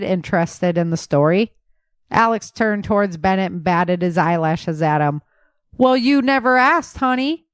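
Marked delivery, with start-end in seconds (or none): 5.8-7.5 hoog en flirterig, een knipoog in de stem; flirtatious. Acted. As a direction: flirt er speels mee. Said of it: "he declared flirtatiously".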